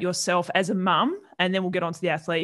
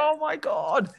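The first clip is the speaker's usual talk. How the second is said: exasperated disbelief; 7 semitones higher, 3 dB quieter than usual. Retold or imitated. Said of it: "I was just like".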